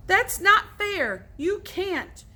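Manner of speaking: high, slow, loud protest. A narrator's reading. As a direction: whine that it's unfair. Joe protests.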